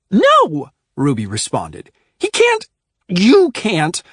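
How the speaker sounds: high, loud flat no; sharp refusal. A narrator's reading. Ruby cutting off Oscar and Adrian, sharp and loud. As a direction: shut it down hard.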